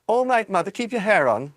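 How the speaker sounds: put-on high, loud cheeky girl shout. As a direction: snap back at mother, loudly. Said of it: "Miss Beauregard shouted".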